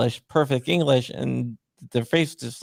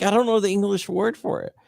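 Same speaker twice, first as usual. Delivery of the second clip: much higher put-on voice as the wife; wife's voice; 10 semitones higher than usual. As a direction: mimic the wife, voice pitched well up. Husband voicing his wife again.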